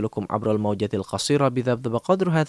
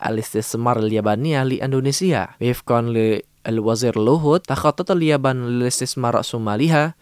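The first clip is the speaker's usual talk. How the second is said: news read; 3 dB louder than usual. Acted. Reads news bulletin.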